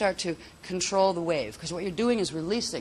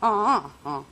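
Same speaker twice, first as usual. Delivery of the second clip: louder toned syllables; three-syllable tone; 3 semitones higher, 6 dB louder than usual. Shown as a demonstration. Teacher demonstrating three-syllable tone. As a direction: tone three beats. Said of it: "do three, like".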